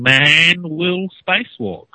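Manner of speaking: slow, drawn-out reversed-tape imitation; backwards speech. Shown as a demonstration. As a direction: mimic a reversed tape, slowly. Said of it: "see if you can hear him saying".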